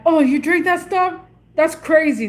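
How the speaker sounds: imitated incredulous reaction; mock surprise. Imagines boss's shocked reaction.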